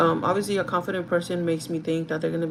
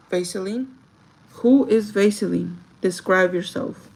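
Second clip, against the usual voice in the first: slow, louder, deliberate question to the candidate; interview question; 7 dB louder, slower than usual. Shown as a demonstration. Manager asking a candidate to describe herself, slow and deliberate. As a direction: ask it like a manager taking charge. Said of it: "That's the question I ask".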